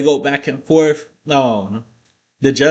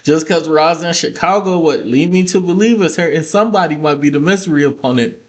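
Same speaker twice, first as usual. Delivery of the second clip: higher, lightly mocking put-on voice; Sami Zayn impression; 5 semitones higher than usual. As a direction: toss it off like a whiny SmackDown guy. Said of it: "Sami Zayn says".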